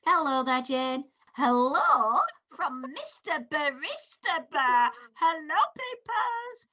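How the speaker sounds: slow, hammed-up German accent for the toy bear; playful mock German bear voice. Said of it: "I've put a German accent on him".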